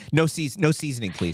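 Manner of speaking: lightly acted polite order; off-air Jasmine Crockett. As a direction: make a mild, prim request as a parody. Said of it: "this is Jasmine Crockett".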